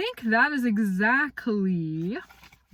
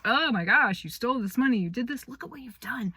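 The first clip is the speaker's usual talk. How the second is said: scolding parent; 6 semitones higher than usual. Retold or imitated. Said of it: "more of a".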